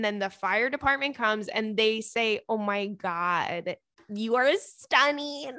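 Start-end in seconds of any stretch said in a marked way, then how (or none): 2.5-5.5 dreamy swoon. Pretend. Imagined firefighter compliment.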